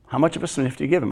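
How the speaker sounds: pressing follow-up, hurried and soft; quick repeat. Shown as a demonstration.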